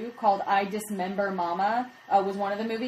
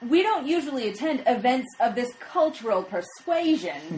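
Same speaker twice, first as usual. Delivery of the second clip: prim wife voice; 3 semitones higher than usual. Retold or imitated. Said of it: "that wife says to the reporter".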